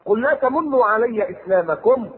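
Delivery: slow chanted verse; Quranic recitation. Acted. Preacher reciting to congregation, slow chant. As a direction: intone the verse slowly.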